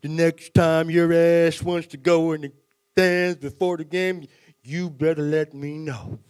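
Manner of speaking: slow, loud, gruff scolding; a furious coach keeping it contained; stern coach. Retold or imitated. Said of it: "He's like".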